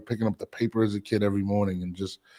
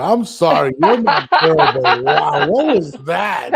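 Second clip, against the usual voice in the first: laughing; 6 semitones higher, 7 dB louder, slower than usual. Real, not acted. Laughing at partner's bad accent.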